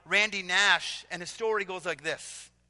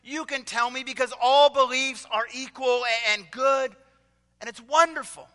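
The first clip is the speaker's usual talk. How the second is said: booming, much higher and louder hearty greeting; burly pastor; 4 semitones higher, 5 dB louder than usual. Retold or imitated. Burly pastor greeting the student at the door, booming and hearty. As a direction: boom it out like a jolly big pastor. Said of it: "the pastor says".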